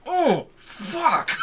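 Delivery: sudden loud high shout. Retold or imitated. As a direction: yell it in shock. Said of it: "that's where, like, I was really".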